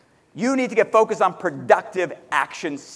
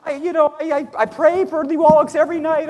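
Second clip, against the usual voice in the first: mock boasting; 6 semitones higher than usual. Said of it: "So if you're telling me".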